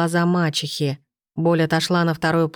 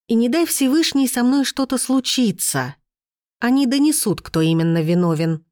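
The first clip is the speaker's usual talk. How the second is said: raised voice; 6 semitones higher than usual. A narrator's reading. Iris calling out to servants as witnesses, raised voice. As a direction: raise your voice so all witnesses hear. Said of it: "повысила я голос".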